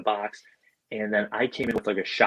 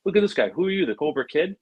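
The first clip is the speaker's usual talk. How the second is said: imitated movie-star ribbing, higher pitched; Vince Vaughn; 7 semitones higher than usual. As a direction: tease the newcomer like a cocky film buddy. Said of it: "just like he is in the movies".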